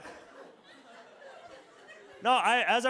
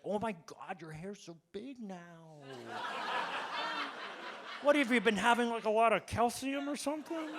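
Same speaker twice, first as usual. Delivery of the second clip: fake enthusiasm; 7 dB quieter than usual. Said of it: "I was like".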